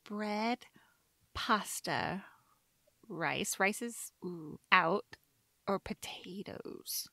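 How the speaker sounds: low, hushed pondering with long pauses; quiet deliberating. Real, not acted. Guest agonizing over a favorite carb, hushed deliberation. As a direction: weigh each option under your breath.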